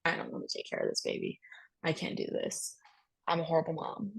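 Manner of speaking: hushed, broken whisper of despair; tearful whisper. Retold or imitated. Exhausted new mom confessing she can't cope, whispering in despair. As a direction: breathe the words out as if near tears. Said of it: "I was crying every second saying".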